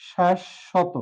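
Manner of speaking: শাশ্বত as "shash-shoto", sh doubled; careful শাশ্বত, the b silent and sh twice; correct pronunciation. Shown as a demonstration. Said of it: "সঠিক উচ্চারণ হচ্ছে".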